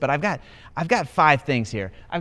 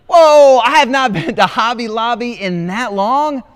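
high, loud astonished exclamation; shocked disbelief; 10 semitones higher, 13 dB louder than usual. Retold or imitated. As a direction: blurt it out like you can't believe it. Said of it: "I was like".

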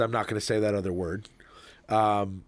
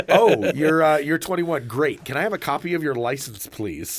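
louder, higher, giggling through it; laughing mock request; 4 semitones higher, 4 dB louder than usual. Man asking a woman for her license, laughing mock politeness. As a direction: fake politeness while laughing.

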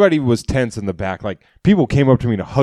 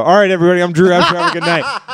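stage sign-off; 6 semitones higher, 3 dB louder, faster than usual. Retold or imitated. Signing off to the crowd.

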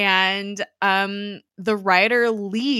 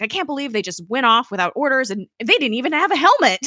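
angry yelling; 5 semitones higher, 4 dB louder than usual. Retold or imitated. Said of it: "angrily yelling about".

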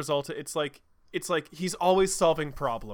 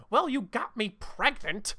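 Rouge; 7 semitones higher than usual. Acted. Rouge voiced, mad and surprised.

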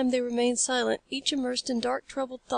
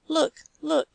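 excited; 4 semitones higher, 3 dB louder than usual. Acted. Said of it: "pale from the excitement of her discovery".

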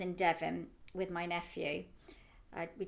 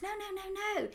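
imitating a child; 13 semitones higher than usual. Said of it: "He goes".

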